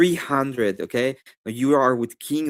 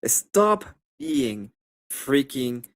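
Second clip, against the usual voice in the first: slow, drawn-out scolding of leftists; scolding mock order; 3 dB quieter, much slower than usual. Streamer mock-scolding leftists in chat, slow and drawn out. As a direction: spell it out slowly like a rebuke. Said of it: "You have to tell them".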